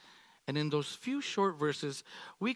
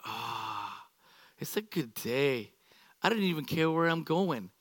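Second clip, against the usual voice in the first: laid-back Mary; 4 semitones lower than usual. Retold or imitated. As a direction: lean back, top down, easy does it. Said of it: "She's like".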